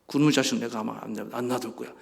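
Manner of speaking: low, grumbled acted threat; angry threat. God vowing to deal with the offender, low mock-angry threat. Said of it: "하나님이 막 화를 내는 거예요".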